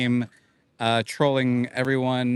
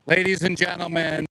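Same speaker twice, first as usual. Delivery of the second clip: announcing big news; 3 semitones higher, faster than usual. Acted. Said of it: "we have an announcement to make".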